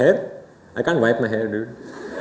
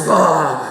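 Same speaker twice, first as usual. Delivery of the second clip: relieved groan. Acted. Mimes relief of letting it out.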